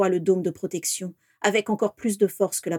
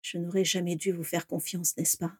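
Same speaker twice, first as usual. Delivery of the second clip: much softer, icy reproach; cold and bitter; 2 semitones lower, 8 dB quieter than usual. Acted. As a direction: let the betrayal chill each word. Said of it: "Son regard était si froid".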